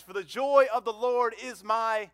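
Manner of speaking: high, loud preacher's call; rally the congregation to finish the verse; loud rousing prompt. Real, not acted.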